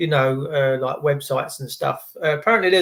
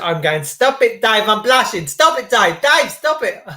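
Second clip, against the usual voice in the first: higher, coy mock protest; mock blushing lady; 5 semitones higher, 4 dB louder than usual. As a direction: play the flattered lady pretending to be embarrassed. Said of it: "she said".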